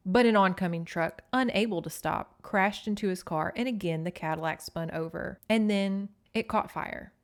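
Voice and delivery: matter-of-fact read-aloud of an officer's account; emotionless police report. A narrator's reading. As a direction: recite it like an official statement. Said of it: "That voice continued on without emotion".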